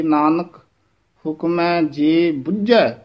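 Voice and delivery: short break after Nanak, then a slow phrase; Nanak set apart; pause after Nanak. Shown as a demonstration. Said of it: "Nanak ਪਦ ਤੇ ਯਮਕ ਲਾ ਕੇ".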